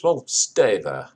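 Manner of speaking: slow, loud dismissive retort; landlady's retort. Retold or imitated. Landlady snapping back at the lodger, slow and loud. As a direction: drag it out, slow and tart. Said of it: "So the landlady says".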